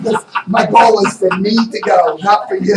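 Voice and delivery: hammed-up scolding of the wife; mock bossy shout. Teasing his wife Viv about the trip, mock shout.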